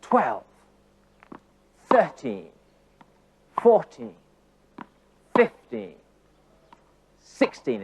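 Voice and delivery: each number from TWELVE to SIXTEEN stressed, alone between long pauses; emphatic counting. Shown as a demonstration. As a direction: count in time with each strike. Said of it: "Emphasis on the moments".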